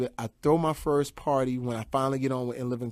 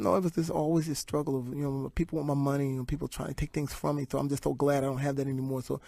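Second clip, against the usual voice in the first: soft peaceful Tyson; 8 dB quieter than usual. Retold or imitated. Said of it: "He said".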